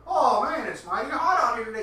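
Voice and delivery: hammed-up moan about the heat; mock whiny customer. Mocking a customer who whines about the Texas heat, in a put-on voice.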